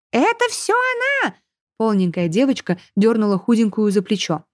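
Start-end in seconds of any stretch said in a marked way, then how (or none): 0.1-1.4 very high whiny shriek, stretched out; shrieking spoiled girl. A narrator's reading. Chubby girl shrieking for her mother. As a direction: wail for mama like a spoiled brat.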